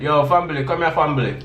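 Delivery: family said as "fambili". Shown as a demonstration. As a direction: say family as fam-bili. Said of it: "y'all pronounce it with a B".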